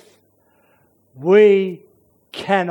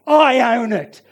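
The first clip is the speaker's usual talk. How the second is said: loud, raised, insistent preaching; emphatic denial; 6 semitones higher, 5 dB louder than usual. Acted. Preacher owning the fault instead of excusing it, loudly emphatic. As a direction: cut off the excuses loudly and firmly.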